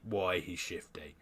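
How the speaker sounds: hushed aside; whispering. Real, not acted. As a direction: whisper it secretly. Whispered tease of the twist.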